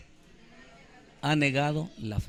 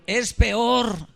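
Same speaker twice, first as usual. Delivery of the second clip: preacher shouting the point to the crowd; emphatic shout; 6 semitones higher, 4 dB louder than usual. Acted. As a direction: shout it out, louder and higher.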